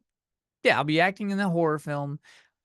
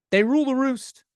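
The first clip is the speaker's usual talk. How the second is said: higher and louder, proclaiming it; emphatic declaration; 9 semitones higher, 5 dB louder than usual. Real, not acted. Owner admitting to the camera that his cats rule, proclaimed loudly. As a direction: announce it like a royal decree.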